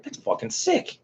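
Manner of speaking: whispered, awed and delighted; excited whisper. Retold or imitated. Telling viewers his reaction to the sticker, awed whisper. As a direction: breathe it out in a high hush. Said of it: "I was like".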